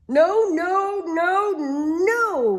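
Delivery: high, loud panicky no; frantic cry. Acted. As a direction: shriek it in a panic. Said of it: "Rabbit cried".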